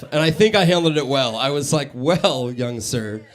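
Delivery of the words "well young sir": lower, softer mock-professional composure; collect yourself and answer with measured politeness; calm, collected. Server replying to a young boy after laughing, mock-calm and collected. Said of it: "I calm down, I collect myself".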